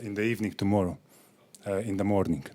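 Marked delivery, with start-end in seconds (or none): 1.7-2.6 correcting himself with a laugh; sheepish laughing fix; laughing correction. Real, not acted. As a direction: laugh it off after the slip.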